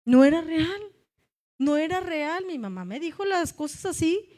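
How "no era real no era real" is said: much louder, "No era real" preached out; emphatic declaration. Shown as a demonstration. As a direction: proclaim "No era real" to the church. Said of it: "restates the same words".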